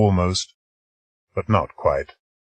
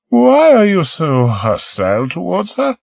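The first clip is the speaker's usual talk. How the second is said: higher, puzzled woman's question; curious; 12 semitones higher, 4 dB louder than usual. Acted. Marie asking Peter why he is hostile, curious. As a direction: ask it with honest curiosity. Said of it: "she asked curiously".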